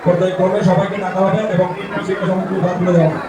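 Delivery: announcer over a PA; echoing public address voice; echoing festival loudspeaker. Real, not acted.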